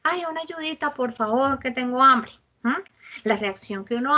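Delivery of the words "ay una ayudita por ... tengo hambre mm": pleading beggar asking for help; a stranger on the street begging for food. Retold or imitated. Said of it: "y nos dice".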